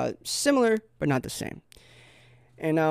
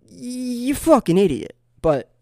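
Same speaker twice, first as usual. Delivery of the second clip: high, loud burst of insult; mock outrage; 9 semitones higher, 6 dB louder than usual. Comedian to those who don't know Spain from Mexico, mock outrage. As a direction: wind up, then yell it in comic exasperation.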